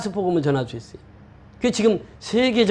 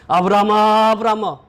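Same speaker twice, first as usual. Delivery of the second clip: calling out; 2 semitones higher, 3 dB louder than usual. Retold or imitated. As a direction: imitate God calling Abraham. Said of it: "아브라함을 부르실 때 어떻게 합니까?". (길게 소리쳐 부르는 말투)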